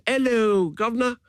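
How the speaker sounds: high, put-on booming hello governor; loud mock greeting. Homies hailing him loudly in the hotel lobby, put-on voice. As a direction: bellow it cheerfully in a put-on voice. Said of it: "It was".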